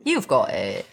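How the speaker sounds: playful mock British; British accent. Co-hosts coaxing Johnny out, in mock British accent. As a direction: coax in a put-on British accent. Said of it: "do a British accent".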